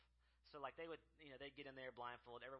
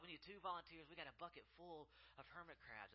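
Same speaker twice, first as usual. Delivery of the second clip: calling for volunteers; 5 semitones higher than usual. Retold or imitated.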